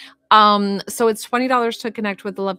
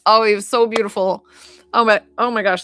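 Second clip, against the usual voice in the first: tearful outburst; 2 semitones higher, 7 dB louder than usual. Real, not acted. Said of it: "that was a tearful one".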